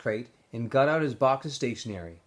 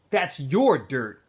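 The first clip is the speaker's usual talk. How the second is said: slow, heavy, louder bully line; menacing Zigzag; 2 semitones higher, 6 dB louder, much slower than usual. Acted. Bully Zigzag to Stanley, slow and menacing. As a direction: drag it out to intimidate.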